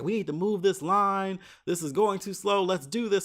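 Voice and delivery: hammed-up security guard rushing the line; mock barking orders. TSA officer hurrying travellers along, mild mock shouting. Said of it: "So he starts yelling all this stuff".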